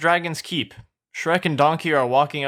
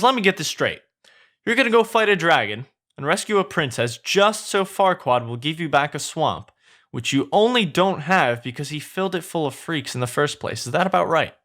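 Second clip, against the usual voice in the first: lightly voiced, slightly raised sceptical sidekick; a touch of disbelief; incredulous Donkey; 3 semitones higher than usual. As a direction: lightly play a sidekick checking an absurd plan.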